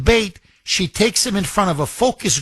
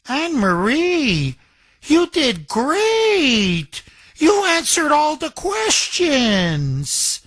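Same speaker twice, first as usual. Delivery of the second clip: mock patronizing praise; 10 semitones higher, much slower than usual. Mock praise to a sick relative.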